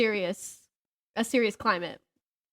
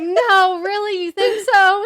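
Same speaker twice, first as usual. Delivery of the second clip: higher, louder wide-eyed naive questions; naive disbelief; 9 semitones higher, 8 dB louder, slower than usual. Retold or imitated. Playing her naive self asking the husband about the cows, high wide-eyed disbelief. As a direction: play the innocent dum-dum, high and eager. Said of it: "I'm a sweet little innocent dum-dum".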